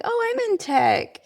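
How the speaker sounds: high-pitched, drawn-out delighted discovery; excited echo. Retold or imitated. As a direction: echo it back, thrilled at the coincidence. Delighted echo of new friend.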